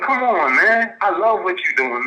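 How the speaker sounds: high, fired-up "come on, man"; eager praise. Retold or imitated. Caller replays cheering on the host's work. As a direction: gush with support. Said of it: "I'm like".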